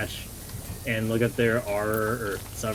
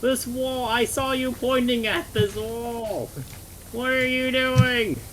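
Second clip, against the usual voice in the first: exasperated yelling; 12 semitones higher than usual. Real, not acted. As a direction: shout at the screen in disbelief. Yelling at game character.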